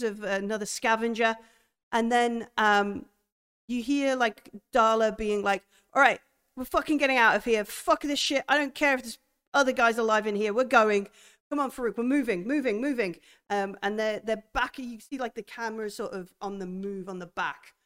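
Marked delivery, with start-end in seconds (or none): 5.9-13.2 louder, fast, pressing; urgent orders. Acted. Darla ordering Farouk to retreat, fast urgent orders. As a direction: hurry everyone out, x1.5.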